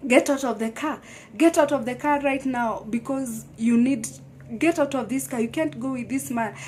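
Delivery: urgent command. Retold or imitated. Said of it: "my mom asked me".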